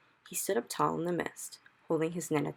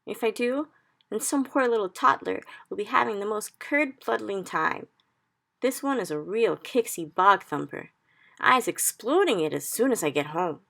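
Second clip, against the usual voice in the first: higher, louder upset giant; agitated giant; 5 semitones higher, 7 dB louder than usual. Acted. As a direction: warn her like a rattled giant. BFG explains the nightmare.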